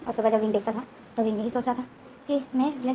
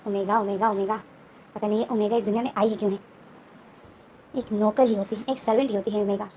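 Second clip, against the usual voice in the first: lower, resentful muttering to himself; sulky inner grumble; 3 semitones lower than usual. Retold or imitated. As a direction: grumble bitterly under your breath. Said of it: "मुँह बना लेता है और दिल में बोलता है". (मुँह बनाकर मन ही मन बड़बड़ाना)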